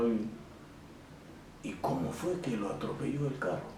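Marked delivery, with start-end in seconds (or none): 1.6-3.7 "cómo" as an emphatic question word; pregunta enfática. Shown as a demonstration. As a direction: ask with the weight on "cómo fue", then let it fall. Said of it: "estoy siendo enfático". (pregunta enfática con «cómo»)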